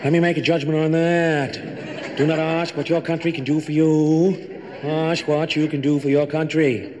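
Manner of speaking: high, lighter take on the famous line; Teddy's new voice. Shown as a demonstration. Teddy tries a new voice on Jack's line for his brothers. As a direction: lift it up, take the edge off. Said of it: "Teddy, you try it".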